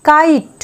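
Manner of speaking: কাইট as kite, teacher's model; model word said clearly. Shown as a demonstration. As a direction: stretch the ai in কাইট for the class. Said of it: "আয়ের উচ্চারণ আই".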